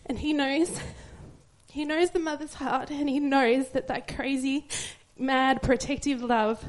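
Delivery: slow down through real tears, voice emotional; tearful. Real, not acted. Mother testifying about God's protective love, tearfully. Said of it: "I'm sorry for blubbering".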